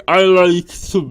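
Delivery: loud, strained, hammed-up child's yell; mock screaming kid. Friend mimics the cartoon boy screaming in the mud, hammed-up yell. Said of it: "screaming and going".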